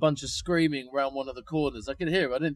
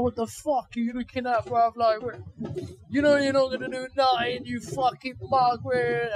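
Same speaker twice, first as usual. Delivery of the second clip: higher, taunting street-tough voice imitating the guy; aggressive geezer; 6 semitones higher than usual. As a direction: sneer at him like a cocky London lad. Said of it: "he's like".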